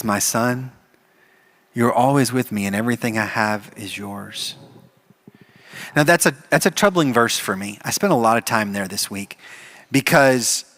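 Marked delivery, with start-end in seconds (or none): 0.0-4.5 soft, gentle father; tender reassurance to his son; gently. Acted. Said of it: "I'm imagining very gently".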